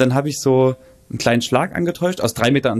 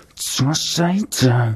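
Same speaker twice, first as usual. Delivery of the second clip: mock passive-aggressive voice through clenched teeth. Retelling what a rushed woman said aloud to herself, mimicking passive-aggressive clenched teeth. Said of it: "ohne ihre Zähne zu bewegen einfach total passiv-aggressiv".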